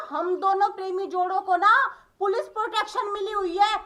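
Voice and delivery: usual speaking voice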